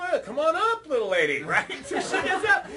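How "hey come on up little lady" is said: hammed-up showman. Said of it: "I go".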